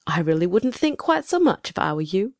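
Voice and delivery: soothing a flustered visitor; kindly. A narrator's reading. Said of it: "said Ma kindly".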